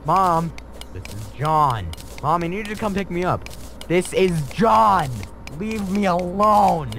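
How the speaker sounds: comic phone call. Acted. Acted phone call skit.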